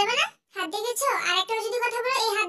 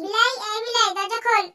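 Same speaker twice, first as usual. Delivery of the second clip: calling out loud; 4 dB louder than usual. Acted. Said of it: "এমন অভদ্র মতো ডাকাডাকি করছে".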